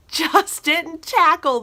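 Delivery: correcting a slip through laughter; laughing. Real, not acted. Reviewer fixes her garbled word for viewers, laughing.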